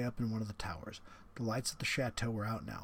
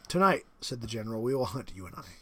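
the general, menacing; 6 dB louder than usual. Acted. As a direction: savour the threat like a proud host. General announces the hunt.

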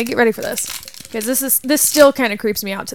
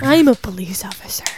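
creepy whisper; 2 semitones lower than usual. Pretend. Pretend creepy cop.

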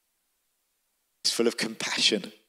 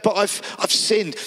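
higher, pressing confession; trying to get the confession out; insistent son; 8 semitones higher than usual. Acted.

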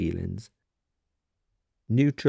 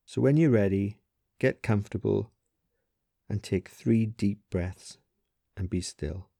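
guided meditation. Acted. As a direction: ease the listener into stillness, leaving long pauses. Leads a body scan.

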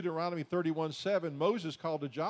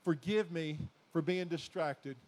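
prayer. Shown as a demonstration. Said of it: "It's time to say".

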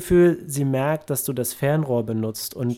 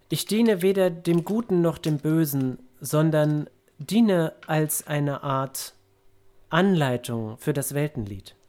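Geist des Weltenliedes; 3 semitones higher than usual. Acted. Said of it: "und sie sagt".

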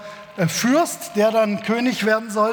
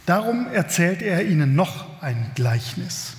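calm, measured reading of a Bible passage; scripture reading; 3 semitones lower than usual. Acted. Pastor reading the parable to his congregation, measured reading voice. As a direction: read the passage to the congregation, unhurried.

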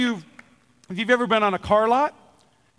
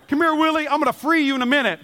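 higher, quick coaxing of the fish; excited coaxing; 4 semitones higher, faster than usual. Retold or imitated. Fisherman coaxing the fish he hooked, excited. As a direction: sweet-talk the big catch in.

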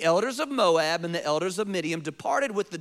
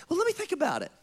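mock hesitation; 7 semitones higher, much faster than usual. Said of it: "like any normal person".

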